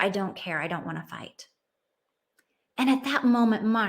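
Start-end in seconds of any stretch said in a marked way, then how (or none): 0.0-1.5 put-on defeated child. Sam gives up, in tears.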